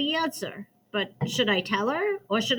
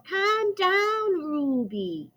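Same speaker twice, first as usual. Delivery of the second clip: higher, firm little scolding from a stern aunt; scoldy aunt voice; 8 semitones higher, much slower than usual. Retold or imitated. Ruby scolding herself in a lightly voiced aunt tone. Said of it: "in my best scoldy aunt voice".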